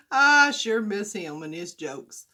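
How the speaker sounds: choked-up laugh, then slow; tearful laugh. Real, not acted. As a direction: laugh that breaks into missing him. Missing late father-in-law.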